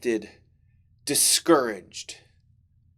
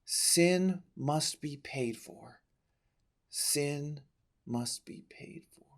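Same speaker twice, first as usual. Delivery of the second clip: fading echo; 11 dB quieter, slower than usual. A narrator's reading. Echoing thought in a dream.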